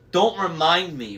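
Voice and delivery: wail. A narrator's reading. Wasp wailing to her sister. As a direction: moan it like a sulky hag. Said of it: "Wasp wailed".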